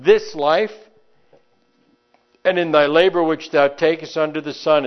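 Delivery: measured, solemn scripture reading. Acted. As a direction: read it like holy writ. Reads scripture aloud.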